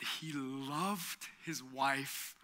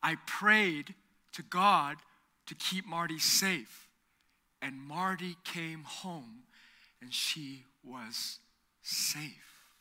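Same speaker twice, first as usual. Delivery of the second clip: very serious; 8 dB louder, slower than usual. Retold or imitated. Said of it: "looked at us very seriously".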